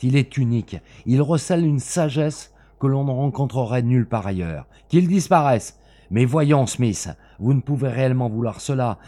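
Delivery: high, loud, urgent begging; desperate pleading. Acted. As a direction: plead for the scroll at all costs. Bellingham pleads for the papyrus.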